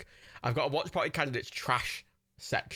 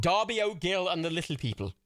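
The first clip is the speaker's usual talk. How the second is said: a playful Irish lilt on the title; Irish accent; 4 semitones higher than usual. Shown as a demonstration. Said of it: "You gotta say it with an Irish accent".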